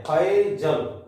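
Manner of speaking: फैजल with the ला cut short, not a full aa; short final la. Shown as a demonstration. Teacher shows the students how फैजल ends short. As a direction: say फैजल leaving the last ला half-said. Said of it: "आधे पर छोड़ देते हैं".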